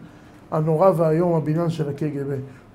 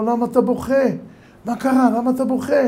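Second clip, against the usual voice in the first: alarmed surprised questions; 6 semitones higher than usual. Acted. Professor startled by the rabbi's tears, higher alarmed questions. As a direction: ask as if shocked to see tears.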